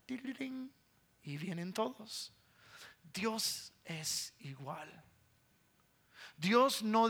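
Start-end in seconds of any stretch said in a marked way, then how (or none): 0.0-0.7 bell imitation. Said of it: "a qué suena la campanita".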